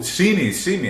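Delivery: a moon shouting up to be noticed; demanding moon. Retold or imitated.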